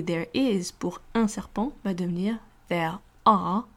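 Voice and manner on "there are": slow whisper; whispered demo. Shown as a demonstration. Teacher whispering the model sentence to students. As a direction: whisper the English sentence slowly.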